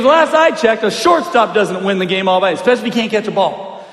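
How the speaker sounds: retold coach's rebuke. Coach dad pointing at shortstop, pointed rebuke. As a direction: call out the player like a coach.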